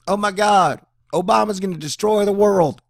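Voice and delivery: loud, high-pitched doomsday cry; mock panic. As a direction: wail it like a hysterical alarmist. Mocking Republicans' panic in 2008.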